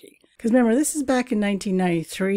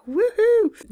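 high, loud woohoo; little victory whoop; excited cheer; 5 dB louder than usual. Real, not acted. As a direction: celebrate the big news. Celebrating website launch.

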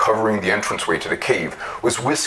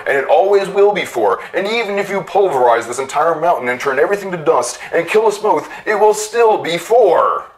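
building rage; 9 semitones higher than usual. A narrator's reading. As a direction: let the rage build to the end. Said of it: "he flew into a rage".

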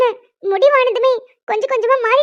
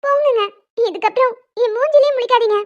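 fake sulk; 3 semitones higher than usual. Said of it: "நடிக்காதடி".

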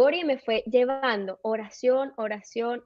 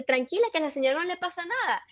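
higher-pitched mock soothing; imitated reassuring mother; 6 semitones higher than usual. Mother telling her crying daughter not to worry, imitated reassurance. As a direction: wave the worry away in a raised voice. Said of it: "y ella me dice".

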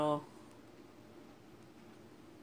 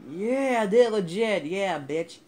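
triumphant shout; 7 semitones higher, 12 dB louder, slower than usual. Real, not acted. Triumph after nailing the jump.

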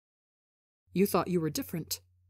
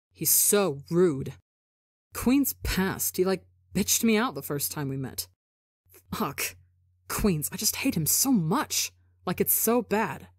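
impression of Tebo. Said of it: "scarily accurate impression of him".

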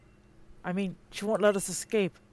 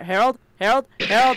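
calling out; 3 semitones higher, 11 dB louder than usual. Acted. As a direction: shout "Harold!" loud, rising at the end. Calling for missing companion.

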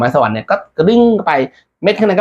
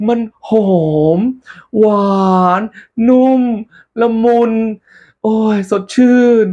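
ecstatic raving; 9 semitones higher than usual. Acted. Monk describing the fruit to messenger, high ecstatic. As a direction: rave about the taste in a high voice.

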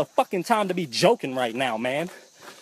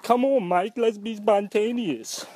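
put-on higher, coaxing girlfriend voice, slowing on the last words; 6 semitones higher than usual. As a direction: play the playful girlfriend, drawn out and pleading. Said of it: "She like".

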